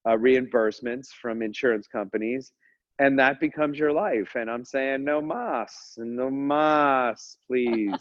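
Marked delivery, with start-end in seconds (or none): 5.0-8.0 drawn-out, playful begging in Spanish; mock pleading. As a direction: beg for mercy, half-joking. Acts out begging for mercy.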